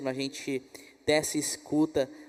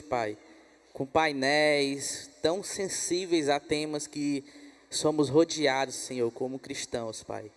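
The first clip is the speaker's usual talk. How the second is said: closing prayer. Acted. Host praying over the guest preacher, earnest prayer. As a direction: pray it with fervent devotion.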